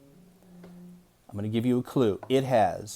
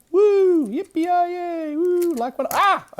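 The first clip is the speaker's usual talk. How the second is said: wild whoops; 7 dB louder, much slower than usual. Acted. Teacher hamming up excitement.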